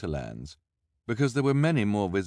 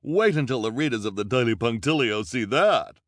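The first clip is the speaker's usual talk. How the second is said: gushing reporter; 3 semitones higher, 6 dB louder than usual. A narrator's reading. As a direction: spell out the headline with relish. Reporter voiced.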